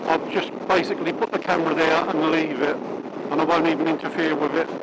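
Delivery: muffled inside a closed helmet; talking behind a shut visor. Real, not acted. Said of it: "now I've just clicked me, um, visor down".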